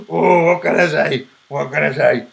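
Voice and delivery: loud put-on Scottish voice; mock a complainer in a hammy Scottish accent. Streamer imitating a rival's reaction, Scottish accent. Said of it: "That was my Scottish accent".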